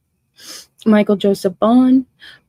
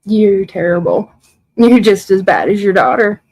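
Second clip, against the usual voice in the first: louder, bitter reproach; angry accusation; 5 dB louder than usual. Real, not acted. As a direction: tell her off to her face. Accusing a viewer covering for daughter.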